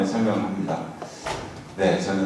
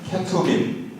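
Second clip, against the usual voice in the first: call for repetition; 9 semitones higher, much slower than usual. Shown as a demonstration. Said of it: "한번 따라서 하죠".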